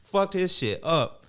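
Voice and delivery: normal talking voice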